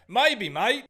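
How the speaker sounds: put-on leaning into a jokey Australian accent; mock Australian. Gamer mocking his own slip, in a playful Australian accent. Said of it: "I turned Australian for a second there".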